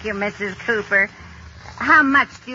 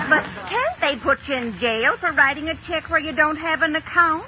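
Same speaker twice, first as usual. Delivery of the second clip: laughing; 4 semitones higher than usual. Acted. Katie laughing while asking.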